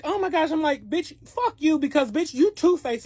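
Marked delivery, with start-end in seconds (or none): 0.0-0.5 high mock gasp of the other woman; imitated shocked coworker; pitched-up oh my gosh; shocked girl. The girl reacts. 0.9-3.0 high, loud furious cussing out; retold rage at the two-faced coworker; pitched-up angry yell; angry telling-off. Confronting the other woman.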